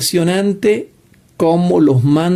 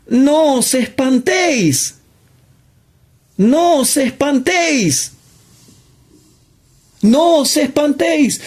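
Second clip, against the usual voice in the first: emphatic preaching; 8 semitones higher than usual. Acted. Preacher repeats Jesus' command.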